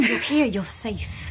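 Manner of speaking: soothing. Acted. Comforting after nightmare.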